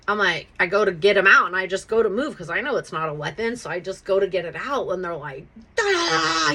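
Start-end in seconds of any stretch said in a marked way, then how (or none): 5.8-6.5 high wordless mock yell; jumbled imitation of police shouting; mock cop yelling noise. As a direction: blurt nonsense syllables like a shouting cop. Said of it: "yelling at me".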